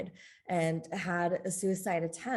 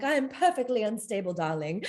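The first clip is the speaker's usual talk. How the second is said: mock British accent; 3 semitones higher than usual. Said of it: "I imagine myself with that accent".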